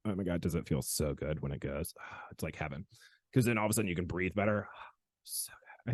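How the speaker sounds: hushed, sighing pleasure, trailing into a whisper; blissful relief. Retold or imitated. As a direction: sink into it with soft, low sighs. Savours how good the adjustment feels.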